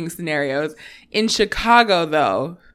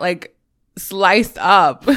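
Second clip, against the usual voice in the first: laughing; 5 dB louder, much slower than usual. Real, not acted. Laughing through the story.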